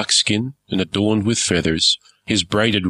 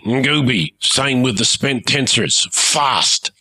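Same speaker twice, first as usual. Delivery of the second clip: captain's orders; 3 semitones higher than usual. Acted. Captain shouting orders to crew.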